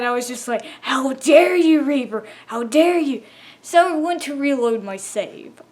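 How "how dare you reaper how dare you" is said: mock outrage. Player telling off the Reaper that bit the Seamoth, mock outrage. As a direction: scold the monster in hammed-up fury. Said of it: "I was just so mad".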